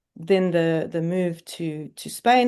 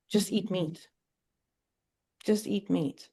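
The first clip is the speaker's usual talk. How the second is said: quiet, insistent inner voice, softer; 6 dB quieter than usual. Retold or imitated. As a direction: murmur it like a voice inside your head. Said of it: "voice going".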